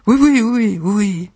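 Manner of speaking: high, loud burst of assent; exasperated yes. Acted. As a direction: give in with an impatient volley. Acted yielding after repeated refusals.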